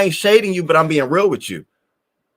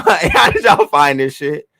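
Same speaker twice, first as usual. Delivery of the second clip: laughing disbelief; 5 dB louder, slower than usual. Real, not acted. Laughing at surprise viewers.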